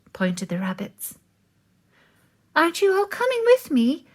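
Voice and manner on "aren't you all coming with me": high, fast worried plea; anxious cry. A narrator's reading. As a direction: plead anxiously, quickly. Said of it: "cried Moose".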